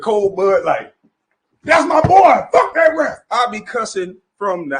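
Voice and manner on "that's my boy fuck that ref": higher, louder mock yell at the screen; hollering at the ref from the couch; cheering at the TV. Yelling at TV from home.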